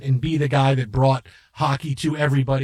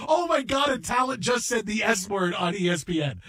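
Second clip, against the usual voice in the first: a mock-panicked cry in the control room; shocked exclamation; 4 semitones higher than usual. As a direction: blurt it out in alarm. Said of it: "And I'm going".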